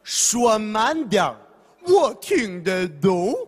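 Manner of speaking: put-on slow, deliberate foreign-accented Mandarin; a foreigner begging you to slow down; foreigner speaking mandarin. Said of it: "他怎么说呀".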